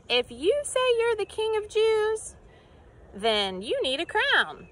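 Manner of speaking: high sneering taunt; mocking soldier. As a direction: taunt him as a cruel soldier. Soldiers mock Jesus.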